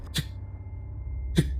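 short dry "cek" ticks; small vocal clicking sound effect; imitated footstep noise. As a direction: mimic spaced taps from overhead. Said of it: "Ada suara kayak".

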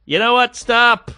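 high-pitched, emphatic mock put-down; cutting him down. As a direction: halt the heckler with an imitated jab. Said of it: "She's just cutting the guy down".

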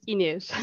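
"Inez" as its owner says it; native name pronunciation. Shown as a demonstration. Guest confirming her name to the host, native pronunciation of "Inez". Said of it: "It's not easy to pronounce".

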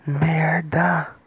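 whispered curse; cursing under breath. Real, not acted. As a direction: hiss the curse out without voice. Player curses after a game mistake. (xingando sussurrado)

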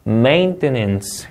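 "Maintenance" slow, with stress on MAIN; first-syllable stress. Shown as a demonstration. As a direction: lean hard on the start of "Maintenance". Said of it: "이름적 강세".

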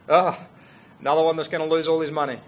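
loud "Oh", then a quick write-off; mock dismissive. Canadian guy on hearing the jeans concept, imitated as dismissive. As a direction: imitate someone unimpressed, tossing it off fast. Retold scornful reaction to his concept.

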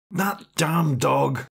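slow, sleepy grumble of "That damn dog"; half-awake muttered complaint; annoyed man mumbling in bed at the dog; grumbled. Acted. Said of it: "he muttered".

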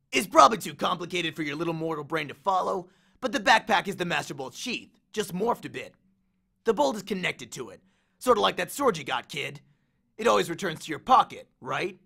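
lightly voiced cocky war god; swaggering Ares, amused. Ares grins at Percy's accusation, lightly cocky. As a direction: toy with the hero, a touch of swagger.

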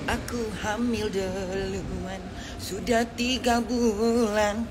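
slow, drawn-out soap-opera line; milk each word like a melodrama; mock dramatic confession. Woman confessing to her man in a soap opera, slow and hammy.

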